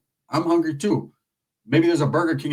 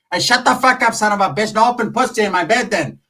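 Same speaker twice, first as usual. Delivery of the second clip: mock angry snap; 4 semitones higher than usual. Arguing with aunt over beers.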